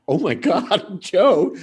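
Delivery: half horrified, half amused outburst; shocked laugh. Retold or imitated. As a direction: comedian watching his opener attack a heckler, laughing in shock. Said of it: "And I'm like".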